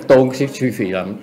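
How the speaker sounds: excited mock reverence to a student; eager excitement. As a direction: rush it out, thrilled. Acting out master bowing down.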